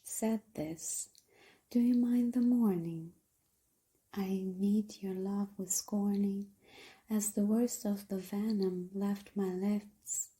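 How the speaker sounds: hushed, breathy poem reading with measured pauses; poetry recitation. Acted.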